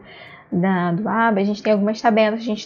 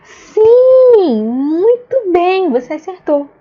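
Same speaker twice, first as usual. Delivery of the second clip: high, loud, drawn-out yes; enthusiastic praise; 7 semitones higher, 7 dB louder, much slower than usual. Shown as a demonstration. Teacher praising a child who got it right, enthusiastic. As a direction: stretch the praise out, big and high. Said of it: "você vai falar".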